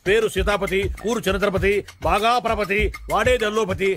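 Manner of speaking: matchmaker's rhyming introduction; rhyming patter. Acted. Matchmaker introduces the groom's father to the bride's side, in rhyme. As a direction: land each rhyme at the line's end. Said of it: "rhyming లో మాట్లాడిన చాలు".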